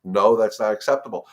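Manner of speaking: a clear boundary, said with weight; firm no. Shown as a demonstration. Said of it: "you're gonna say".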